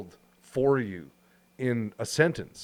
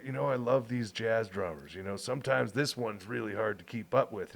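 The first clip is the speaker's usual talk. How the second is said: calm quiet; 2 semitones lower, 6 dB quieter than usual. Retold or imitated. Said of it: "He's like".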